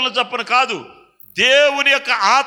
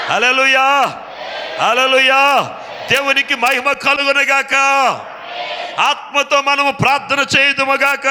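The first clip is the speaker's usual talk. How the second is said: shouted preaching. Acted. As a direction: rouse the congregation at full voice. Preaching at full force, shouting.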